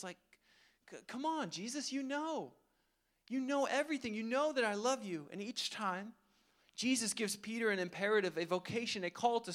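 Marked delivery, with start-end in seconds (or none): 0.9-5.3 pitched up, defensive pleading. Pretend. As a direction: defend yourself, a little exasperated. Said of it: "this sense of defensiveness".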